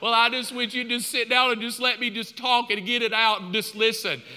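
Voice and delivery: running-on plea in a wife's voice; a hint of pleading wife; lightly imitated wife. Wife asking husband to just listen, mildly pleading.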